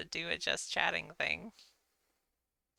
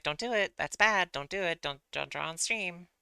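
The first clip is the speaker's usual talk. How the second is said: anxious inner voice; 2 semitones higher, 6 dB louder than usual. Retold or imitated. Voicing her anxious brain.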